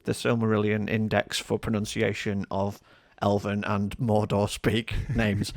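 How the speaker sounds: lightly voiced know-it-all correcting someone; pedantic geek. Fan correcting a reader's pronunciation, lightly mock pedantic. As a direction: correct them like a fussy lore nerd. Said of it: "Ringsian geek".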